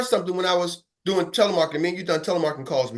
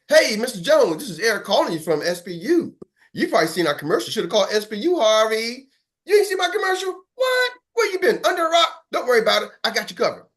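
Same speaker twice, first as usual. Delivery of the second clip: energetic sales call; 5 semitones higher than usual. Shown as a demonstration. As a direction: sell it with full energy. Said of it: "can you call person number ten?".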